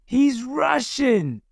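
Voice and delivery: shouted. A narrator's reading. Soldiers warning each other, calling out high. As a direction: keep the alarm going. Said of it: "they shouted".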